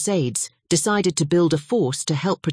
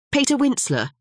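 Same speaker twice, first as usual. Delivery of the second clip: high, glad exclamation of a name; delighted surprise; 10 semitones higher than usual. Acted. Albero cuts in, delighted to hear his friend. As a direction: pounce on the caller's name. A voice answered, cutting him off.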